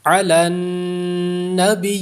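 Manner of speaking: علی النبی recited slowly, pausing without an added h sound; علی النبی بغیر ہا کی آواز; correct tajweed. Shown as a demonstration. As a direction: stop on علی النبی with no h at the end. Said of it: "یا مشدد ہے".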